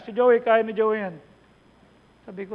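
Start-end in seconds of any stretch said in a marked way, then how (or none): 0.1-1.2 emphatic retold quote. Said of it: "Sabi niya".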